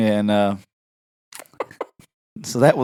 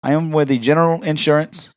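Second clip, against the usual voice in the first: a higher, lightly put-on Indian accent; mock Indian accent, cold-calling a friend's dad late at night; prank caller accent; 4 semitones higher than usual. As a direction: play a telemarketer named Habib with an Indian accent. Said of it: "My name is Habib".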